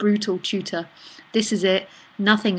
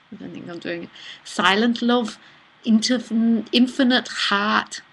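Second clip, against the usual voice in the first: attempted Liverpudlian accent. Shown as a demonstration. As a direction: try a Liverpool accent and keep slipping. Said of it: "I'm bastardizing your poem".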